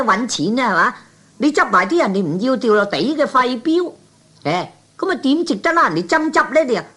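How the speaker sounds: high, scornful ribbing; mocking disbelief. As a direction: tease him, incredulous and high. Mocks Kwan for collecting waste slips.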